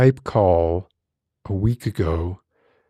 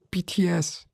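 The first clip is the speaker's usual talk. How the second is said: whisper; 9 semitones higher, 4 dB quieter than usual. Pretend. Whispered aside in ASMR parody.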